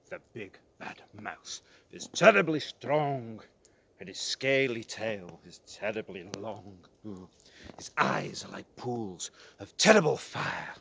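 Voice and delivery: scare the little ones; booming scary description. Acted. Gruffalo describes scary mouse.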